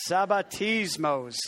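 lightly Italian-sounding sabbatismos, slow; teaching a word with a playful Italian lilt; Italian-flavoured Greek. Shown as a demonstration. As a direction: roll out "sabbatismos" with a mock Italian flair. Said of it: "that's kind of Italian accent".

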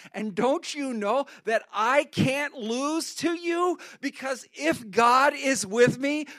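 put-on young David building to a bold shout of faith; defiant young David. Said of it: "He thinks in his mind".

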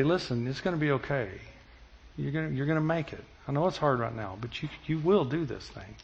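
put-on soft, quiet reassurance to a child; reassuring dad. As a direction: gently tell the child it will be okay.

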